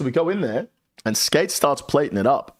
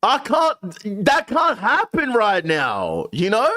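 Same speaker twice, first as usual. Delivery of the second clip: stunned disbelief; 10 semitones higher, slower than usual. Real, not acted. Disbelief after puppet scene.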